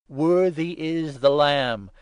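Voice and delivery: loud, ringing acclamation; loud cry. A narrator's reading. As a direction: cry it out in praise to the heavens. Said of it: "they cried in loud voice".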